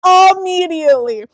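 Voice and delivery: whiny fake sobbing; playing up the tears for laughs; mock crying. Sister retelling the spider scare in a mock sob. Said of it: "I started crying".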